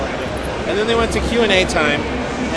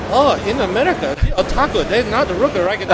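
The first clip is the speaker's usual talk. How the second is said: put-on Japanese accent; 4 semitones higher than usual. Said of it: "it probably went something like this".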